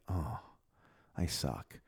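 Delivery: low, quiet sinking admission; dejected. Retold or imitated. Rider leaving the park after criticism, dejected. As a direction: sag into a soft, low groan of self-doubt. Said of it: "feeling like".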